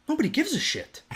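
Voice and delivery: says it through a high laugh; laughing in disbelief. Real, not acted. Retelling being ignored while bleeding.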